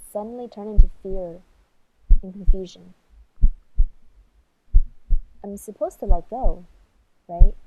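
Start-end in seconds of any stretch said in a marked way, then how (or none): 5.4-7.5 loud, anxious plea for reassurance; panicky. Real, not acted. Climber alone on the wall asking himself in rising panic. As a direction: fear pushing the voice up in volume. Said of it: "I started to panic".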